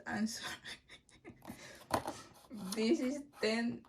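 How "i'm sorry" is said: laughing apology. Real, not acted. Laughing at her own mix-up.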